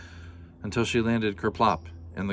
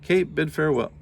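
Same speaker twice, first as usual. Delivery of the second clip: "bid" said as the first try, louder; wrong word bid; 7 semitones higher, 5 dB louder than usual. Shown as a demonstration. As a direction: read "bid" before correcting. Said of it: "How about bade?".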